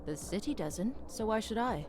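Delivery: brooding hard-boiled detective line; a touch of world-weary noir. Acted. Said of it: "Spoken like a perfect noir detective".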